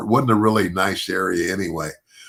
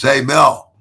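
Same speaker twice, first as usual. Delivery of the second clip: calling out; 3 semitones higher, 3 dB louder than usual. Retold or imitated. Calling out to Mel.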